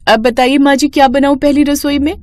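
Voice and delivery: lightly voiced new bride asking politely; young bride.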